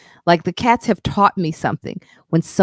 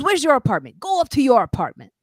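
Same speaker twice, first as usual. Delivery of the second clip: much higher, firm command; ordering him off; 8 semitones higher, 4 dB louder, faster than usual. Retold or imitated. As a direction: send the guy upstairs, voice way up. Super orders the guy away.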